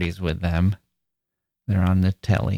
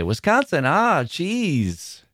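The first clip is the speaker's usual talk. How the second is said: knowing stranger; 6 semitones higher, slower than usual. Retold or imitated. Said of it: "when people say".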